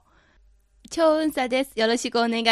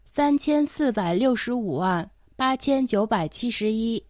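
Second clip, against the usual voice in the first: dictating. Shown as a demonstration. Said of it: "頑張ってそれを聞き取ってください".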